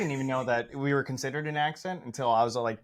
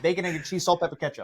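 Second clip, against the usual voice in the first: laughing Long Island deli order; mock Long Islander, amused; Long Island accent; 4 semitones higher, faster than usual. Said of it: "Oh, there it is".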